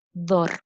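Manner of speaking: "dor" set apart as the strong syllable; teacher singling out the stressed "dor". Shown as a demonstration. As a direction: isolate "dor" and give it full weight. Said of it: "que se pronuncia con más fuerza es".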